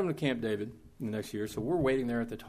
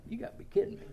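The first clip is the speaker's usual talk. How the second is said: laughing disbelief; 12 semitones higher, 3 dB quieter, faster than usual. Retold or imitated. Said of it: "he looks down the aisle and he's like".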